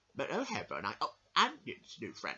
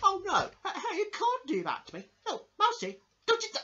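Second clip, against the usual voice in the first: high, loud laughing pleas; laughing protest; 7 dB louder than usual. Real, not acted. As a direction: beg her to stop through laughter. The speaker pleads while laughing.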